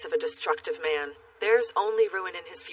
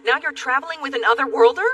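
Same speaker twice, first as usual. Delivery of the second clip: shocked; 7 semitones higher, 9 dB louder, faster than usual. Acted. Shocked disapproval.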